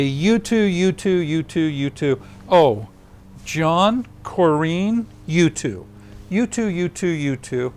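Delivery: high, sing-song matchmaking tease; teasing sing-song. Retold or imitated. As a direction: chant it like a teacher playing cupid. Frank teasing, pairing them off.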